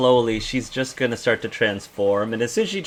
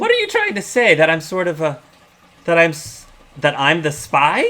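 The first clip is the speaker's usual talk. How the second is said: indignant; 5 semitones higher than usual. Acted. Energy accused of being spy.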